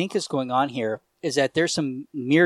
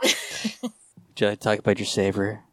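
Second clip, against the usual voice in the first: slow, lower door-to-door preacher voice; preachy evangelist; 5 semitones lower, slower than usual. Pretend. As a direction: play a slow, earnest missionary. Mock evangelist pitch after savior joke.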